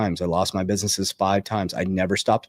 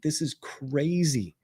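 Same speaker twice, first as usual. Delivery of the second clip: amazed; 6 semitones higher, slower than usual. Retold or imitated. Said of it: "I'm like".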